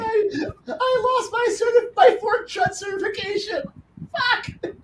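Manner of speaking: very high, cracking wail of lost hope; mock wailing despair. Player wailing to the table about his lost certification, mock sobbing. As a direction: ham up a tearful crying shout.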